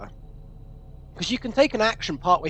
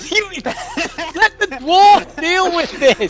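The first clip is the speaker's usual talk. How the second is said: slow gruff bravado; 8 semitones higher, 4 dB louder, much slower than usual. Acted.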